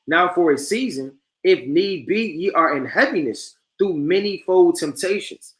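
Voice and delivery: slow, measured verse reading; preacher reading from First Peter; scripture reading. Acted. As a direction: read the verse steadily and slowly.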